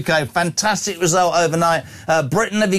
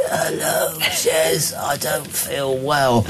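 sicky voice; much slower than usual. Pretend. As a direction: drag the words out like you can barely speak. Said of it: "What's your best sicky".

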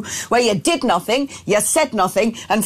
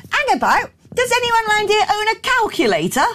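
incredulous retort; 8 semitones higher than usual. Retold or imitated. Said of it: "And it's like".

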